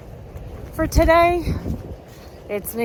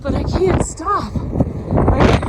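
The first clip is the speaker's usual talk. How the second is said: shouting over wind; 3 semitones higher, 4 dB louder than usual. Real, not acted. Strong wind gusting on a summit.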